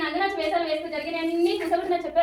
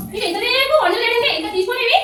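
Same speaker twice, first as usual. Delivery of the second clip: higher, exasperated complaint; mildly shouted grumbling; raised voice; 4 semitones higher, 4 dB louder, slower than usual. Acted. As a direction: protest with the voice pitched up. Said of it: "ఏంటి అరుస్తున్నావు అలా".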